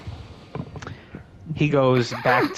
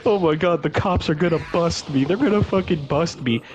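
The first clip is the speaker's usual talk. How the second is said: freaking out; 5 semitones higher than usual. Retold or imitated. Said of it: "freaking out".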